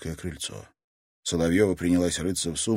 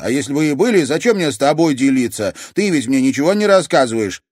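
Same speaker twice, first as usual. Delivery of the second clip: higher and much louder, accusing; sulky young woman; resentful granddaughter; 8 semitones higher, 10 dB louder than usual. Acted. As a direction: throw it back in her face. Luiza retorts to grandmother.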